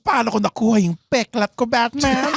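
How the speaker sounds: lightly voiced Joker taunt; Tagalog Joker voice. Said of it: "Tagalog na Joker".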